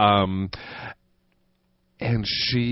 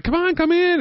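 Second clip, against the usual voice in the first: very high pet-talk; coaxing a dog. Retold or imitated. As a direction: urge the dog in, pitched way up. Coaxing dog back inside.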